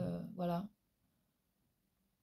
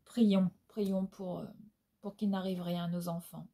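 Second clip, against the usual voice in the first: solemn prayerful; 3 dB quieter than usual. Real, not acted. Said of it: "très, très vive émotion".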